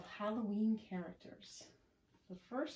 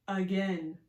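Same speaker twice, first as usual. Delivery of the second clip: loud demand at usual pitch; eager cry; 10 dB louder than usual. Acted. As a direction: call out wanting another go. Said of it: "cries Cat and Frankenstein".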